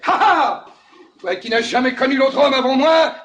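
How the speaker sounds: loud, crowing entrance; mock triumphant bridegroom. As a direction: burst in like a cocky new husband. Bridegroom's boastful entrance, acted.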